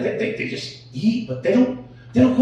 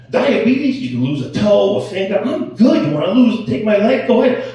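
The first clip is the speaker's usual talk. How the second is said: defiant bluster; 4 semitones higher, 5 dB louder than usual. Retold or imitated. Defiant reply about losing limbs.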